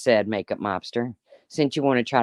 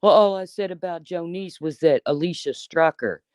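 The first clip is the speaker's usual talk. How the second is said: mocking; 5 semitones higher than usual. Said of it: "you didn't just say".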